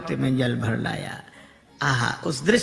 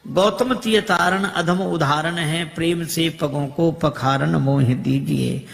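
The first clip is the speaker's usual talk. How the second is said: rhythmic devotional verse, slowing on the rhyme; poem recitation; 3 dB louder than usual. Acted. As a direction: declaim the kavitt with measured rhythm.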